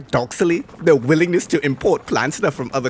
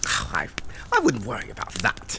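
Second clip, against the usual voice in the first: irritated; 4 semitones lower, 6 dB quieter than usual. Acted. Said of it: "irritated with his audience".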